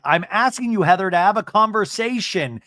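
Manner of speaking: mock exasperated insistence; heated demand. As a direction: act out pleading in a quarrel. Acted quarrel between cast members.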